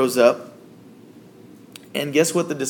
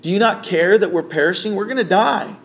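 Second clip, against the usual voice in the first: panicked disciples; 4 semitones higher than usual. Retold or imitated. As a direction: voice the disciples' alarm in the storm. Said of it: "they panic".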